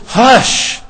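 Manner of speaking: a mild, diminutive hush; hushing a puppy. Retold or imitated. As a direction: shush it gently, as to a small pet. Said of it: "The way you would tell a little yapping puppy to hush".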